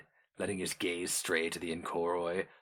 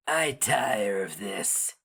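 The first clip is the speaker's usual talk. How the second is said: inhuman creature voice; slower than usual. A narrator's reading. Orang complains.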